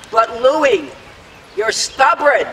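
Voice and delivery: acted-out complaint to a stubborn colleague; exasperated retort. Borglum complains to his carver during a disagreement, mock exasperated. Voices sculptor's retort in quarrel.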